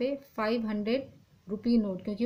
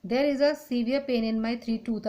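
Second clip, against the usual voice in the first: slow dictation; 3 dB louder, much slower than usual. Shown as a demonstration. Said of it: "tooth नहीं होता है".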